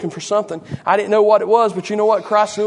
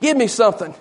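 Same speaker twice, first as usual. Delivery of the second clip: hollered "hey", pitched up; crying out; 5 semitones higher than usual. Acted. Beggar to Peter and John as they walked by, hollering. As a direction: holler after people walking past. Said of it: "He cried to Peter and John".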